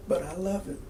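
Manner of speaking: softly, a quiet sincere plea; kind and sincere. Retold or imitated. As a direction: say it gently, from the heart. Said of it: "He just very kindly said, very sincerely".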